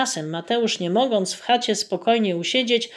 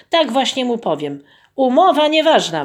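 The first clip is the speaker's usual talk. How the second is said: louder, higher exclamation with stress on "Umowa"; exclaimed; 5 semitones higher, 4 dB louder than usual. Acted. Peasant repeating his wife's idea, glad exclamation. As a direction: shout it out triumphantly. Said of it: "wykrzyknął".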